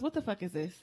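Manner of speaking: lightly voiced grandmother, unbothered by cursing; a hint of grandma's low-key demand; imitated grandmother. Grandmother confronting child over the poop, lightly imitated. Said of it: "This is how she talks".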